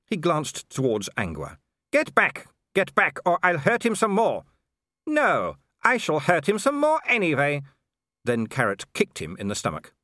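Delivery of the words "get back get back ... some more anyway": high, hard threat, savouring the cruelty; menacing werewolf. A narrator's reading. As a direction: push her back with a grin in it. Wolfgang threatens Angua.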